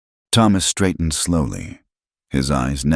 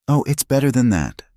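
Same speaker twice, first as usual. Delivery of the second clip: gleeful; 9 semitones higher than usual. A narrator's reading. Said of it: "Miriam interjected".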